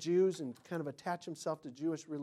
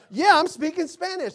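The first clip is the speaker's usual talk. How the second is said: high, loud boastful imitation; mock Spanish show-off; 10 semitones higher, 13 dB louder than usual. Mimicking how his friend just sounded, loud mock bravado. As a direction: proclaim it like a fake fluent speaker. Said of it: "he just sounded like".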